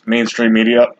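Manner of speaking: talking through hiccups. Real, not acted. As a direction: hiccup breaking the words. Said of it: "I got the hiccups".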